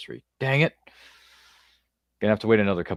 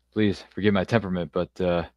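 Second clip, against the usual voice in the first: put-on Southern accent. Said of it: "forgive me for my bad Southern accent".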